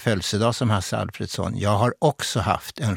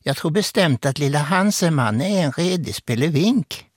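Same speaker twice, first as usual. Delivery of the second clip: grandmother's Halland dialect, pitched higher; 5 semitones higher than usual. Retold or imitated. Grandmother pronouncing on her two-year-old grandchild, Halland dialect. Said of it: "på sin halländska uttalade sig".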